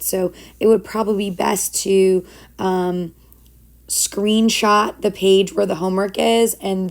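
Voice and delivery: raspy, worn-out teacher voice; hoarse voice. Real, not acted. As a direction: voice nearly gone, speaking through it. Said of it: "even though I sound all hoarse and sick".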